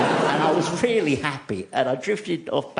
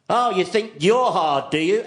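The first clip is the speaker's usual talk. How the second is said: louder, higher mock threat to a bully; mock bravado, raised and higher; tough-guy challenge; 7 semitones higher, 3 dB louder than usual. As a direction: square up like a hard little kid. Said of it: "I'd say".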